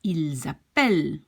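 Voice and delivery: "appellent" stressed on -pell-; stress before the L. Shown as a demonstration. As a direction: lean on the vowel before the L in "appellent". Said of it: "The stress is again just before the".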